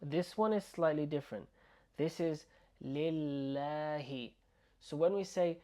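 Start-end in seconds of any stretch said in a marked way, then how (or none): 2.8-4.3 lillahi with a light, front "laa"; lillahi, slow, the long a kept light. Shown as a demonstration. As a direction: draw out "lillahi" with a thin a as in cat. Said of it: "it sounds light".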